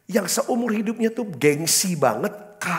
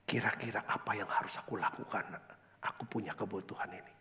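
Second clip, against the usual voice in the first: whispered prayer; 6 semitones lower, 11 dB quieter than usual. Retold or imitated. Retold desperate prayer to God.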